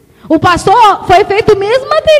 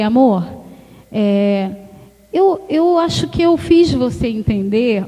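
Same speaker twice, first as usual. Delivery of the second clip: tender apology to the husband; gentle tone; 5 semitones lower, slower than usual. Shown as a demonstration. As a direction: soothe an upset husband. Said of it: "Aí você muda o tom de voz".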